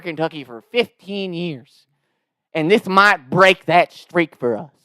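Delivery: slow, drawn-out Southern grievance; milk it as a mock-solemn Southern customer; Southern twang. Prank caller mourns his loyalty to the restaurant, Southern twang. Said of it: "this Southern twang".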